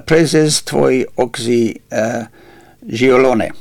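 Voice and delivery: slow, careful go at "Prezes Tvoi Oxy, uh, Giolone"; tentative Romanian pronunciation. Shown as a demonstration. Radio host has a go at a Romanian title, tentative "Prezes Tvoi Oxy, uh, Giolone". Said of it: "have a go pronouncing this Roma-, Romanian title".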